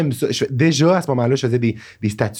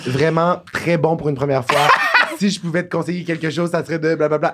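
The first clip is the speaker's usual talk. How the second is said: lightly voiced mentor, pitched higher; imitated advice-giver; 6 semitones higher than usual. Paparazzi host answering a fan's joke comment, lightly imitated advice voice. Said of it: "Elle était comme".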